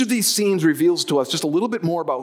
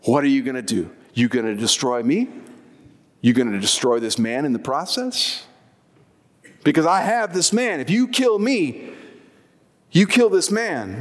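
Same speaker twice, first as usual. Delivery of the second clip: preacher lightly voicing a demon taunting Jesus. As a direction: sneer at Jesus as a cornered demon, half-acted. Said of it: "he's basically taunting Jesus".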